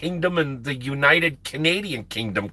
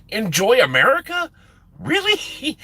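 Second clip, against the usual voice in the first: high-pitched, rising disbelief; incredulous echo; 11 semitones higher, 3 dB louder than usual. Retold or imitated. Trucker echoing the officer's parting jab, incredulous. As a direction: throw the words back as a squeaky question.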